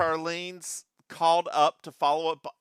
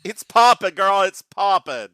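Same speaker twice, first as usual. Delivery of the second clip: sassy show-off; 4 semitones higher, 10 dB louder than usual. Acted. Showing off her lip gloss.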